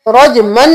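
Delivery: रजमन said quickly with the meem split; रजमन without joining the two meems; fast रजमन; wrong reading. Shown as a demonstration. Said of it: "नहीं करना".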